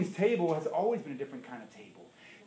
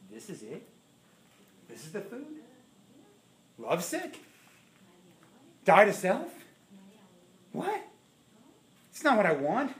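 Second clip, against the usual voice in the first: disappointed whine; 4 semitones higher than usual. Pretend. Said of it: "And we're like".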